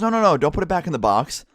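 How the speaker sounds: lightly voiced demanding teacher; insistent teacher. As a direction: imitate the sub pushing him to light it. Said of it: "And she goes".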